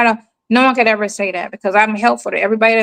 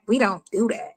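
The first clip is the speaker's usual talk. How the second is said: flat, curt, softer and dismissive; blunt refusal; 7 dB quieter than usual. Retold or imitated. Imitating the rude clerk's curt refusal. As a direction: shut it down without a smile. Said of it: "But she was like".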